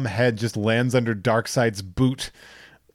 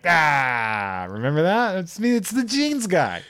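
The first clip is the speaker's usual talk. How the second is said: much higher mocking jeans guy; goofy Aquaman; 6 semitones higher than usual. Host mocking Aquaman taunting Steppenwolf, much higher. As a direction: taunt in a silly high voice.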